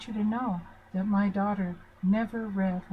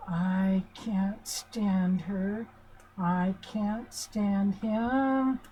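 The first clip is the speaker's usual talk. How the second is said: slow, cold critical parent, voiced lightly; much slower than usual. Adult child inwardly rejecting the parent, slow and cold. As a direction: drag the words out with contempt, mildly. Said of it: "Do you hear the critical parent?".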